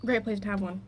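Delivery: dry, understated sarcasm; sarcastic. Real, not acted. On having a first tic attack at school, dry sarcasm. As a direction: say it deadpan, meaning the opposite. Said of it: "That was very sarcastic".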